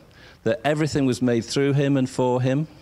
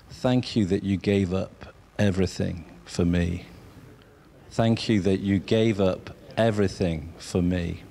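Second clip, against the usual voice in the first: softly sincere thanks; 3 semitones lower than usual. Shown as a demonstration. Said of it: "I want you to say to Jesus".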